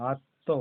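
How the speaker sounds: আত্ম as "atto", no ম sound; stressed ত, silent ম. Shown as a demonstration. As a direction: press a double ত in আত্ম. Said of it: "তটা জোর দিয়ে বলা হবে".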